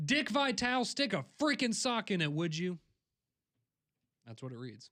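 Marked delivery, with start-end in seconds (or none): 0.0-2.8 mock loud shouting, pitched up. Reading aloud a message written in all caps, saying it loudly. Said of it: "so I have to say it loudly".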